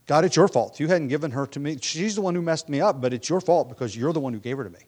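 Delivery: mildly indignant, pushing the blame away; accusing. Acted. Preacher voices Adam blaming God, accusing. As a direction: voice a defensive accusation, leaning on "your". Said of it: "Adam's blaming God".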